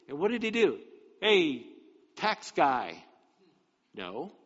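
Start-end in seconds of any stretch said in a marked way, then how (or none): 1.2-3.0 lightly acted loud hail; mock calling out. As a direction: call out brusquely to someone nameless. Mock calling to Zacchaeus without name.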